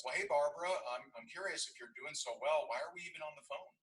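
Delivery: mock bold challenge; challenging question. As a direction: call her bluff. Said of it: "the obvious statement was".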